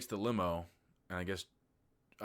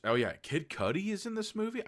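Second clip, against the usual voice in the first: sudden high delighted realization; surprised; 12 semitones higher, 4 dB louder than usual. Real, not acted. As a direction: jump up in pitch, genuinely caught off guard. Spots actor mid-recap.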